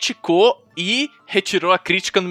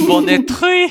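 high, laughing repeat; 11 semitones higher, 4 dB louder than usual. Pretend. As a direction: giggle it out. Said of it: "repeats own joke".

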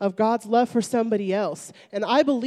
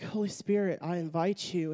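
soft, lowered private prayer; inward prayer; 4 semitones lower, 8 dB quieter than usual. Retold or imitated. Inviting the Holy Spirit in, soft inward prayer. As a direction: pray it quietly, as if only in your head. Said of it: "And in my head".

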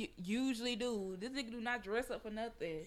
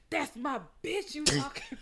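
slow, higher-pitched movie-line impression; mock confrontation; 6 semitones higher, 4 dB louder than usual. Quoting the House Party Three scene, mock confrontation. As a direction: stretch it out like a mock challenge. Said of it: "He was like".

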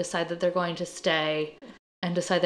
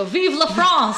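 dad's cheer; 6 semitones higher, 5 dB louder, much slower than usual. Retold or imitated. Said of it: "my dad would go".

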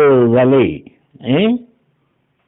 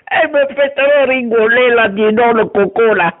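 rire aux larmes; 10 semitones higher than usual. Acted. Moqueuse qui rit aux larmes.

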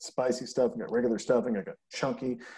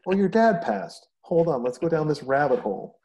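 caring friend; 4 semitones higher, 5 dB louder than usual. Shown as a demonstration.

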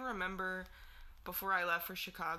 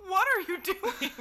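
puzzled sister; 11 semitones higher, 9 dB louder than usual. Retold or imitated. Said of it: "she goes".

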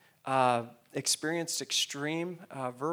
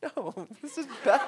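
high, louder, laughing through tears; real tearful voice; 7 semitones higher, 6 dB louder than usual. Real, not acted. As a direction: choke it out high with a teary laugh. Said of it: "forgive me if I tear up".

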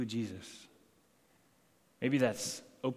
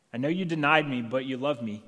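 louder, stressing denied, full conviction; firm declaration; 5 dB louder than usual. Acted. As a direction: proclaim it firmly. Jesus repeats, stronger.

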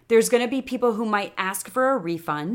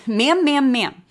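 laughing, louder string of ma'ams, climbing in pitch; playful mimicry; 5 semitones higher, 5 dB louder, slower than usual. Host teasing how often kids say ma'am, playful mimicry. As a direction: parrot the word playfully through a laugh. Playfully parrots the repeated word.

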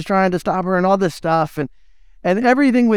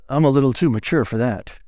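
mock stuffy adult; 8 semitones lower than usual.

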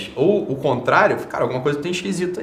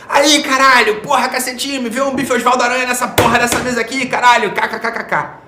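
loud, higher hammed-up customer ordering with swear words; mock rude order; 8 semitones higher, 6 dB louder than usual. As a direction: shout the order like a boor at a waiter. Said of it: "Imagina que eu vou te pedir".

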